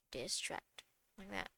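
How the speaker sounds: distract said again softly and breathily; soft repeat. Shown as a demonstration. Teacher softly echoing the cue, hushed. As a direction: drop the voice to a hushed echo of distract. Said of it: "repeats the cue, then softly".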